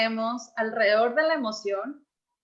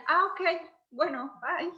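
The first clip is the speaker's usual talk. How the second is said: lost for words; 4 semitones higher than usual. Retold or imitated. Guest imitates people hearing she feels bad, awkward exit. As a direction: imitate someone backing out of a conversation. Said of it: "ya no saben qué decirme".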